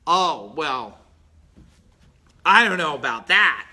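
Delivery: hammed-up reluctant student making excuses; mock excuse-maker. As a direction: play the lazy guy dodging the work. Mimics an unwilling excuse-maker.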